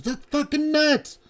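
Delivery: very high mock squeal of hilarity; squeaky, incredulous retold outburst; imitated cracking up. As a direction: mimic a friend losing it laughing. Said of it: "she just started fucking cracking up".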